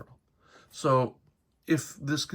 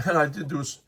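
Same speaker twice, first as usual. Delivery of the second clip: hiccups breaking the words; hiccuping. Real, not acted. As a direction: talk through small hiccups. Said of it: "I'm hiccuping a little".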